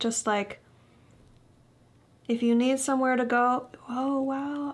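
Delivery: teary voice. Giving a tarot reading for Pisces, tearing up. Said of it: "I'm tearing up here".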